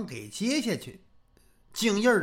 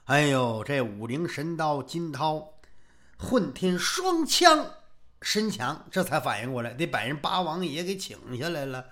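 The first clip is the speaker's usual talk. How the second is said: ordinary delivery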